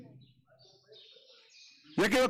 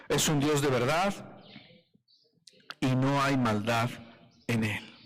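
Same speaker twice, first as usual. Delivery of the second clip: scripture reading. Acted. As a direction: read it out with weighty pauses. Reads a Bible verse aloud.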